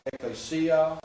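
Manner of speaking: ecclesia, accented on the next-to-last syllable; ecclesia with its second-last syllable punched; stress second from last. Shown as a demonstration. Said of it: "second from the last".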